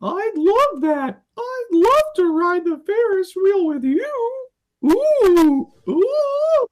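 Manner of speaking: very high squeaky cartoon coo. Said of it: "Cartoon voices".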